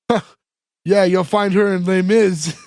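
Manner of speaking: snarky, condescending corrector; retold condescending jab. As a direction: toss it off as a knowing, snide correction. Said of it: "that snarky comment from him".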